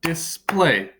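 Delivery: display split into dis-play; display in two separated syllables. Shown as a demonstration. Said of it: "has two syllables".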